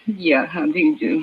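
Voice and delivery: put-on a mother with a Swedish accent, worn out. Swedish mother greets detectives.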